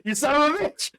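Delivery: high, loud hammed-up outrage; mock-furious yell. Mikey throws his glaive at Leo, mock-furious yell. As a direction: yell it in play-acted outrage, nearly laughing.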